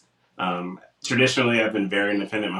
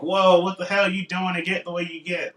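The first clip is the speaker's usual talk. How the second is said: high-pitched, impressed gym buddy; amazed admiration; 9 semitones higher than usual. Retold or imitated. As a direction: marvel at a friend's progress. Imitating amazed gym-goers' compliment.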